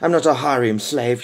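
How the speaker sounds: quick, flaring retort; flashing back. Acted. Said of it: "she flashed".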